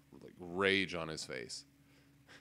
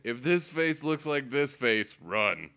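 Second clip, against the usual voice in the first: slogan; 5 semitones higher, 8 dB louder, slower than usual. Pretend. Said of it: "put that on a t-shirt".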